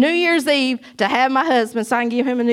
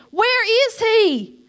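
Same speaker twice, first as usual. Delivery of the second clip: slow, higher, laughing through it; laughing mock complaint; 9 semitones higher, much slower than usual. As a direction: laugh at your own impatience. Laughing retelling of prayer.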